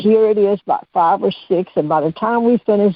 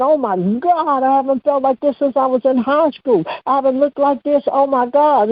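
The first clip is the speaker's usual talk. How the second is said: amazed women retold in a higher voice; higher, mildly hollered excitement without real screaming; mock excited hollering; 6 semitones higher than usual. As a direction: imitate women gushing in amazement, pitched up. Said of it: "all I could hear was screaming and hollering".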